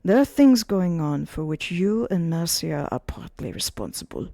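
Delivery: hushed, slow close to the ear; secretive whisper in the ear; whispered warning. Acted. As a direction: hiss it into his ear. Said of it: "put his mouth to Gabriel's ears".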